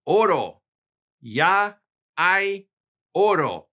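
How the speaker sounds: Oro. Ya hay oro called out like finding treasure; excited reveal. Shown as a demonstration. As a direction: announce it with growing excitement. Excited demo of palindrome.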